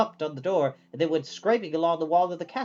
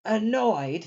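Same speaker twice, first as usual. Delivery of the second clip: mock surprise; 6 semitones higher than usual. A narrator's reading. Sophie repeating the word.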